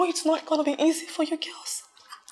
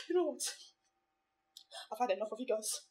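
quiet resigned; 6 semitones lower, 17 dB quieter, faster than usual. Acted.

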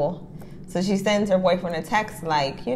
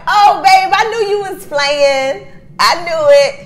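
put-on pleading girlfriend; 11 semitones higher, 10 dB louder than usual. Girlfriend pleading after being dumped.

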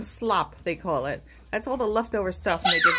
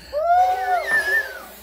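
elephant trumpet; 4 dB louder than usual. Acted. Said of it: "it sounds like we have a herd of elephants".

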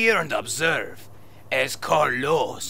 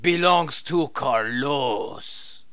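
fake Spanish accent. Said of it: "your fake Spanish accent".

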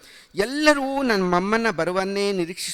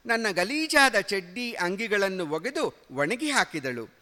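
ordinary delivery, nothing marked

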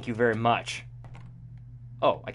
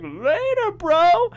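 casual goodbye; 12 semitones higher, much slower than usual. Retold or imitated. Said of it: "He's like".

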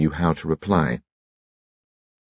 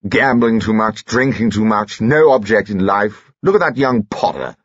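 a lightly voiced pompous old soldier, raised and disapproving; pompous Sir Herbert; 4 semitones higher than usual. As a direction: grumble on like a stuffy retired officer.

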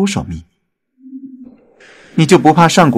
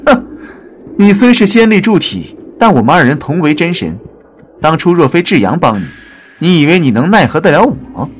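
scoffing; 3 semitones higher than usual. Acted. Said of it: "天启嗤笑一声".

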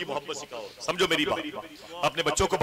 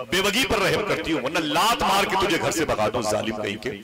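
scolding aunt; 5 semitones higher than usual. Acted. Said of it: "बहुत डांटा मेरी खाला ने".

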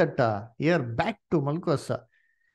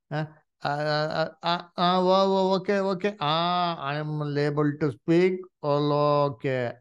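halting mock speech. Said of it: "They did not speak like that".

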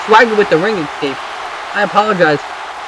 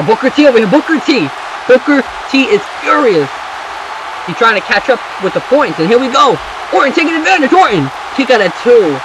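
rising, higher-pitched running call; excited play-by-play; 5 semitones higher than usual. Real, not acted. Commentator follows Booker T's comeback, excited. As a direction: build with the action, then land it. Match heats up, quick exchange.

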